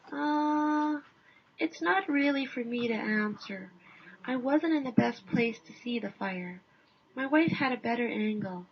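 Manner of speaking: lightly voiced hesitant husband; hint of a self-effacing Canadian; modest Canadian. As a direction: deflect the question politely.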